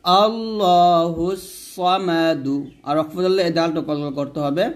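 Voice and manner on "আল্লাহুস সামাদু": slow chanted আল্লাহুস সামাদু; slow recitation. Shown as a demonstration. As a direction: recite it slowly, without stopping. Model recitation drill.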